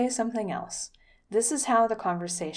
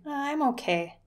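hesitant, lukewarm "Uh, I'm okay"; unsure okay; 6 semitones higher than usual. Shown as a demonstration. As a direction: sound not quite sure you're fine. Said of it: "It sounds kinda like".

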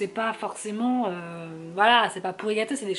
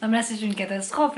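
rough, failing voice; losing her voice; hoarse voice; 2 semitones higher than usual. Real, not acted. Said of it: "là c'est même plus une voix là".

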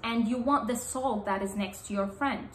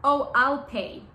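higher, louder quick offer to pay; eager offer; 4 semitones higher, 5 dB louder than usual. Shown as a demonstration. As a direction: jump in to grab the bill. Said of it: "He may go".

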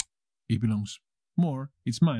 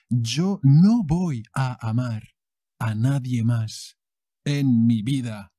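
dramatic vow; 5 dB louder than usual. Acted.

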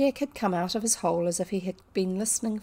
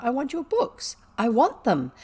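intense longing; 5 semitones higher, 5 dB louder than usual. A narrator's reading. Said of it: "her eyes grew big and her chest heaved".

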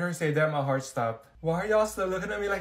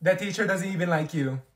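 loud mocking; 5 semitones higher, 7 dB louder than usual. Students mocking the teacher.

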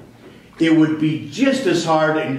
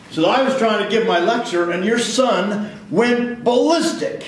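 angry teacher; 5 semitones higher than usual. Retold or imitated. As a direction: mimic the complaining teacher, pitched up. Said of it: "And he's mad".

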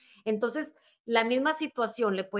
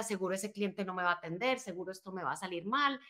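self-critical mutter; 2 semitones lower, 5 dB quieter than usual. Retold or imitated. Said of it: "uno es muy bueno dándose látigo".

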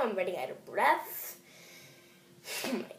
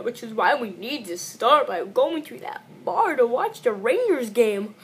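mock crying; 5 dB louder than usual. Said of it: "I had fun crying with you".

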